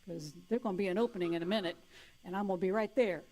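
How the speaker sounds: lightly voiced sly demon; taunting demon. The demons taunting the enlightened, mildly sly. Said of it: "they're still going".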